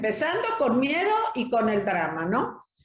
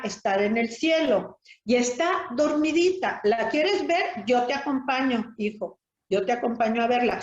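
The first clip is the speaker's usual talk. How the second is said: put-on gentle talk to a child. Shown as a demonstration. Counselor shows how to tell a child mom is sleeping, gently. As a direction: speak to the grieving child tenderly. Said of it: "Entonces decirle".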